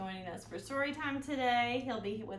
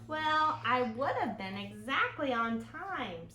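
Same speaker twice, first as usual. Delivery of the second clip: put-on excuse-making boy. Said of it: "said Henry".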